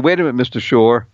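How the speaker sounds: ordinary talk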